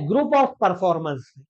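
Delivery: very slow teacher definition; slow dictation. Shown as a demonstration. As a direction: say it slowly so students can write.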